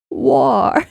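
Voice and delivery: second go at a British "waw"; British accent. Acted. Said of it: "how do the British say war".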